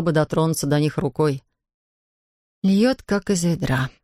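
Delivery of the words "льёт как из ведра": slow, higher gloomy remark; gloomy statement. Acted. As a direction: state it darkly and slowly. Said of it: "мрачно констатировала она". (мрачно, медленно)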